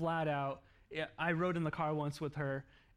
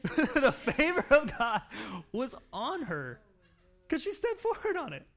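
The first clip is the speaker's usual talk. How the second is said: excited; 9 semitones higher, 8 dB louder than usual. Real, not acted. Preacher celebrating God's favor to congregation, exultant. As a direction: lift it up in joyful praise.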